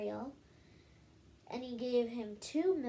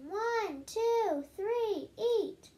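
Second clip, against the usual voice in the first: much higher, louder countdown call; judge yelling; 10 semitones higher, 5 dB louder, much slower than usual. Acted. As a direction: call the contest start like a judge. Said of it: "He yelled".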